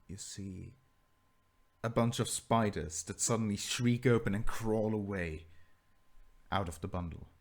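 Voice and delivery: measured, suspenseful narration with slow drawn-out phrases; game master's scene setting. Acted. Game master describing a ghost to players, slow suspenseful narration. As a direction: pause and let the eerie reveal build.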